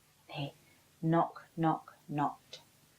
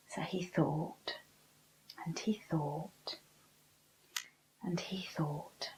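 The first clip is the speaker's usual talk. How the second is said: hushed thinking; 7 dB quieter than usual. A narrator's reading. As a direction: let each "he thought" sink quieter. Narrator hushed, repeating thinking.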